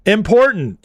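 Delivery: "Important" said high and firm, then falling; defiant important. Shown as a demonstration. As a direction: punch out "Important" with its T, proving a point. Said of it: "I said it".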